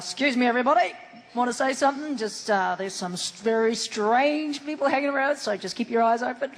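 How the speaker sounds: put-on a light New Zealand accent; lightly voiced Kiwi bloke warning the crew. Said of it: "that was my Kiwi bloke voice".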